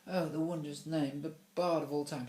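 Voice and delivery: high, emotional gushing; tearful rapture. A narrator's reading. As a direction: overcome with adoration for the poet. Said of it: "Tears came into Mister Lace's eyes".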